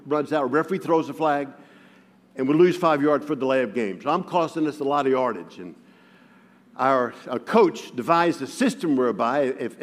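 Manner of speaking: ordinary delivery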